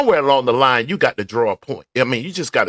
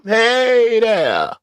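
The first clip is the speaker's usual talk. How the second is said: very slow, higher Southern Alabama hey there; 7 semitones higher than usual. Shown as a demonstration. Vlogger showing off his Southern Alabama greeting. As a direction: stretch the hello out in a Southern Alabama accent. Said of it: "In my Southern Alabama voice".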